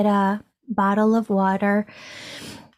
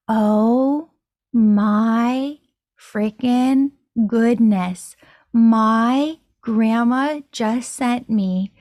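stunned amazement; much slower than usual. Retold or imitated. Stunned by meeting the author.

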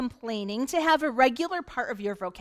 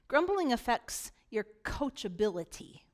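whisper; 2 semitones lower, 7 dB quieter than usual. Shown as a demonstration. Preacher whispering a warning to the congregation. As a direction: lean in and whisper it. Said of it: "whispered point in sermon".

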